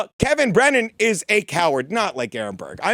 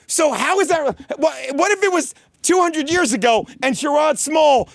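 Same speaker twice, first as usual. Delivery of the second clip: raised, shouting, worked up; heated rant at critics; angry rant; 5 semitones higher than usual. Real, not acted. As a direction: shout it out in frustration. Ranting at critics.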